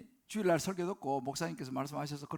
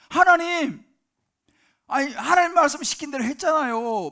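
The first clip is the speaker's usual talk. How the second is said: loud, high, exasperated pleading; believer's complaint to God; 8 semitones higher, 12 dB louder than usual. Pretend. A struggling believer protests to God, loud exasperated plea. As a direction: demand answers from God, aggrieved. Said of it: "우리도 그렇게 말할 때가 있잖아요".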